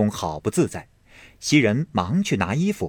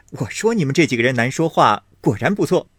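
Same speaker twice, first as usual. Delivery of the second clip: laughing; 4 semitones higher, faster than usual. Acted. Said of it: "宝玉笑道".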